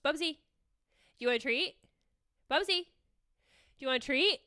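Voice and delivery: slow, coaxing treat offer; coaxing a pet. Real, not acted. Host tempting co-host Bubsy with a treat, coaxing. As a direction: ask slowly, tempting a pet.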